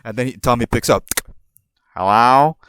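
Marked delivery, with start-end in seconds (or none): 2.0-2.6 a hint of a redneck accent, answering the phone loud; Tommy's redneck accent. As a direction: pick up like a redneck boss. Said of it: "I'm gonna do it in a redneck accent".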